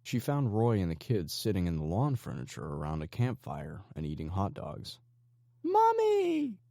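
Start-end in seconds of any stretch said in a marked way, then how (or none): 5.6-6.6 put-on high, loud child's happy shout; excited yell. A narrator's reading. Little daughter greeting her mom with an excited yell. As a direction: call out to mommy with pure delight. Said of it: "she heard Catherine yell excitedly".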